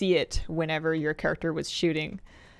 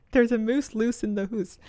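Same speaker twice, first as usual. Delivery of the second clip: higher-pitched mock Scottish lilt; fake Scottish accent; 5 semitones higher than usual. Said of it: "best fake Scottish accent".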